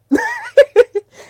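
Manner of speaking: sudden loud, high giggle-shriek; high squealing laugh. Real, not acted. Gushing over favourite wrestler.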